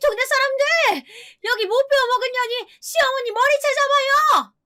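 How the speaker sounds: high, piercing scream at the top of lungs. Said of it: "라고 고래고래 소리를 치기 시작했습니다".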